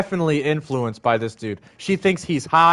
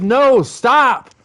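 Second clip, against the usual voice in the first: retold firm scolding; 2 semitones higher than usual. Telling his girlfriend to stop stealing, raised and firm. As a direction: firmly forbid her to steal. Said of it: "And I said".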